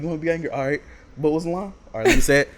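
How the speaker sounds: hammed-up anger for the camera; mock angry delivery. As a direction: fake anger on demand. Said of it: "be angry when you say it".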